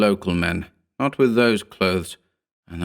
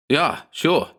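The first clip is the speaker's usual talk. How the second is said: insistent; 8 semitones higher than usual. A narrator's reading. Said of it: "insisted the Pole".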